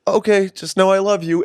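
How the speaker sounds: put-on high, sweet little boy voice; high kid voice.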